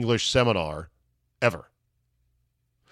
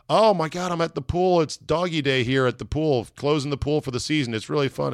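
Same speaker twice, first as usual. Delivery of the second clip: excited wife; 5 semitones higher than usual. Retold or imitated. Wife voiced on the phone.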